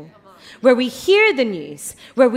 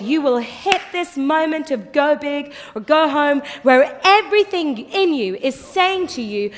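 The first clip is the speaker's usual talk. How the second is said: ordinary talk, nothing marked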